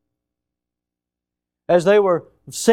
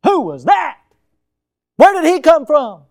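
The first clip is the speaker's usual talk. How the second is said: put-on puzzled child; 9 semitones higher, 8 dB louder than usual. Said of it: "they say".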